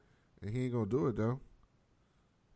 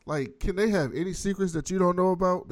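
higher, louder incredulous rant; exasperated rant; 8 semitones higher, 6 dB louder than usual. Retold or imitated. Host retelling his own outrage at Jefferson, loud and high. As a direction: yell at him, fed up.

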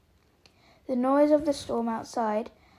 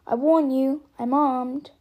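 shouted threat; 8 dB louder than usual. Acted. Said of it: "he shouted".

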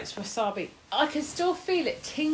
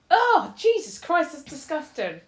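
disgusted; 3 semitones higher, 6 dB louder than usual. Real, not acted. Tasting a disgusting snack.

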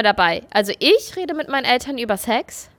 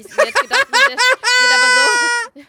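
high, laughing through words; 12 semitones higher, 5 dB louder than usual. Real, not acted. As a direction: laugh while telling it. Laughing while telling.

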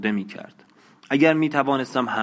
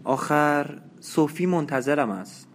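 put-on higher, slow and unsure, as a young woman; hesitant; 5 semitones higher than usual. A narrator's reading. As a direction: hold back, slowly, torn about going. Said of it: "با دودلی گفت".

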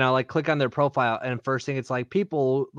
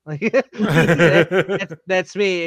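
laughing; 4 semitones higher, 7 dB louder, much slower than usual. Real, not acted. Laughing while naming himself.

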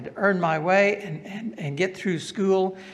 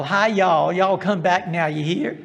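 lightly put-on Southern accent, a bit louder; 4 dB louder than usual. Teacher imitating Korean students he taught to speak Southern, in a Southern accent. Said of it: "with a Southern accent".

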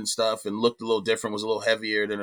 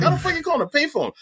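imitated disbelief; faster than usual. Voices a puzzled movie reaction.

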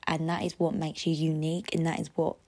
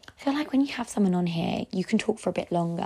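breathless from talking; running short of air; out of breath. Real, not acted. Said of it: "Like, I'm out of breath".

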